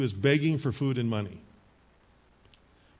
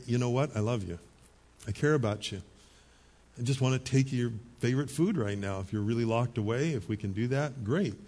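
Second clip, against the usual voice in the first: softer, gentle words of love; tender reassurance; 3 semitones lower, 4 dB quieter than usual. Pretend. To a quarantined mother, soft and tender. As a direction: tell a sick loved one you care, gently. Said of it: "and just say".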